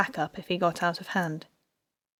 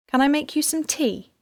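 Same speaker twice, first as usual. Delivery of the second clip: gentle; 7 semitones higher than usual. A narrator's reading. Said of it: "gently taking hold of Elsie".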